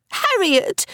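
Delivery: very high, horrified cry of a name; choked terror. A narrator's reading. Little Frances appeals to Harriet over the unicorn, terrified. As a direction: choke it out in dismay. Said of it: "gasp whooshed into a choke of terror".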